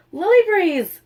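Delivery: high, loud cry of her name; alarmed shout. Acted. Teammates seeing Lily hit by the ball, alarmed shout. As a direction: call out in alarm across the field.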